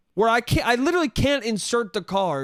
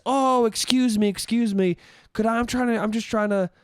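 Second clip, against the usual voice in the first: overly polite, slightly raised pitch on the opening; super nice. Shown as a demonstration. Man trying to pay at a blocked machine, super nice. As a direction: imitate an extra-nice apologetic request. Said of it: "I could have been super nice".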